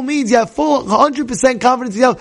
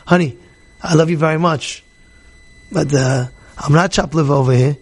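gentle way of talking. Retold or imitated. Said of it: "there's a way of talking to your own wife".

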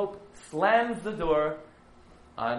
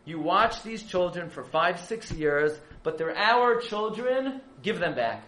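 pleading rabbi; 2 semitones higher than usual. Retold or imitated. Herzog pleading with the Pope.

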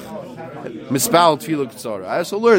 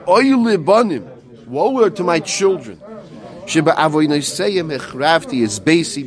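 mournful lament; 2 semitones higher than usual. Retold or imitated. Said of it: "that's cooing like a dove".

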